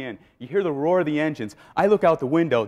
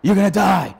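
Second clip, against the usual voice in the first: inner doubting voice; 4 semitones higher, 8 dB louder than usual. Retold or imitated. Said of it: "I heard this voice in my head".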